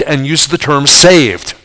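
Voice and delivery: slow, leaning on saved; saved stretched and weighted at the end; stress on saved. Shown as a demonstration. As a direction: draw out the word saved. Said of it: "two of the most important words".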